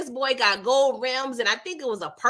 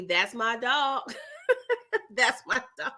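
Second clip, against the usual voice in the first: Smokey impression; 4 dB quieter than usual. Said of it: "giving Smokey".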